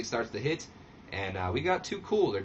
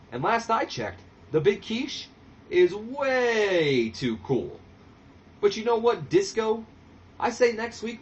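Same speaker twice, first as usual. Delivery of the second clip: Grandmaster Sexay promo; 7 semitones higher than usual. Retold or imitated. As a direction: call out the challenge, pumped up. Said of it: "Grandmaster Sexay takes the mic and he goes".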